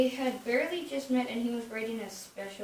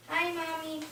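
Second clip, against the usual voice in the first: bright, higher, cheerful hello; merry greeting; 6 semitones higher than usual. Acted. The twins greet their mom as she comes home, merrily. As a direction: greet Mommy happily. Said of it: "the twins said very merrily".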